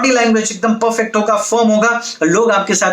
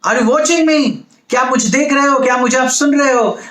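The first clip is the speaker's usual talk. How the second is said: higher, punchy questions fired at the crowd; attention-grabbing call; 3 semitones higher than usual. Shown as a demonstration. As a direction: wake the audience up with direct questions. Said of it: "आपको उनका attention को grab करना है". (ऊँची, जोशीली आवाज़ में सवाल)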